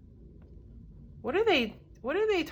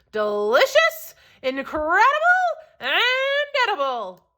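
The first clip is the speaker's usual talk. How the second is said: excited listing; 8 semitones higher, 3 dB louder than usual. Acted. Traveler lists soup qualities.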